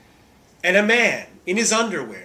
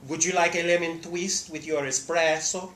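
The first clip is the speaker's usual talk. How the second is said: Pinchot line; 3 dB quieter than usual. Retold or imitated. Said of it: "Bronson Pinchot says".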